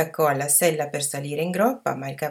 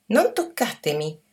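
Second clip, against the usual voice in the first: mild mock yell; 3 semitones higher than usual. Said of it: "ma appena ripreso fiato gridò".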